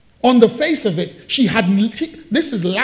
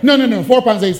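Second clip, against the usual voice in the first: loud laughing denial; laughing disbelief; 2 semitones higher, 6 dB louder, faster than usual. Real, not acted. Preacher laughing at the tiny balance, laughing.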